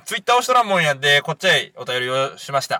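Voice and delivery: reading the letter in Kagoshima dialect. Shown as a demonstration. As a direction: slip into broad Kagoshima dialect for the listener letter. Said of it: "これ今から全部鹿児島弁で読んだ方がいい".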